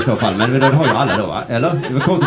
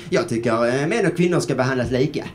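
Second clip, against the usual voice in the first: lightly put-on silly voice; 3 dB quieter than usual. Shown as a demonstration. Comic testing his opinion, mildly silly voice. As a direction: test the opinion in a faintly goofy voice. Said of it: "säga den med fånig röst".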